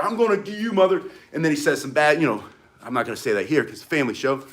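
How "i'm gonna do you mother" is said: higher, mock-angry movie threat; louder threat. Gangster threatening the prince, imitated higher and angrier. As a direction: ham up the thug's threat. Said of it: "Samuel Jackson gets louder".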